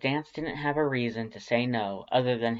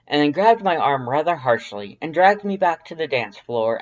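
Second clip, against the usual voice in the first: high, loud, proud skeleton voice; Papyrus storytelling voice; 4 semitones higher, 9 dB louder than usual. A narrator's reading. Papyrus telling Dance about the beach, high and loud. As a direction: tell it like a grand proud skeleton. Papyrus narrating his tale.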